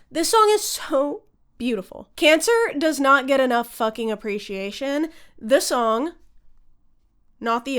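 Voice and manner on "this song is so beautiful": real whisper, slightly higher; awed whisper. Real, not acted. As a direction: breathe it out in awe. Gushing over favorite song.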